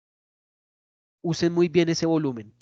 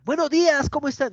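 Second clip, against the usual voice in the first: high-pitched concert-host hail; overdone shouted greeting; 9 semitones higher than usual. Shown as a demonstration. Teacher mocking an over-excited start to a presentation, shouty. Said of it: "tampoco gritar".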